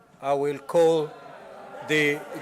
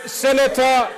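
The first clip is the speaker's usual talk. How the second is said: shouting senator; 4 semitones higher than usual. Real, not acted. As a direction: shout the name to silence them. Speaker calling chamber to order.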